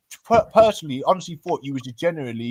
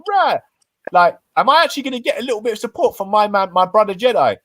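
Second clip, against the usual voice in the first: high, fast disbelieving rush; incredulous inner thought; 7 semitones higher, 3 dB louder than usual. Retold or imitated. Man retelling his thoughts about his friend's loyalty, high incredulous rush. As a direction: rattle it off in disbelief, pitched way up.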